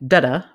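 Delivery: da-da with the first da hit hard and the second da light; strong-weak da-da rhythm; stress on first syllable. Shown as a demonstration. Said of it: "stress on the first one".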